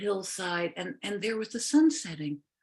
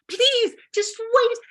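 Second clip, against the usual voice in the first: high pleading witch voice; 7 dB louder, slower than usual. Acted.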